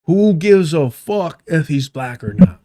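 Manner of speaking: slow, drawn-out repeat of the quote; incredulous quote. Retold or imitated. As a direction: repeat it slowly, stressing each bit in disbelief. Mockingly quotes the clip back.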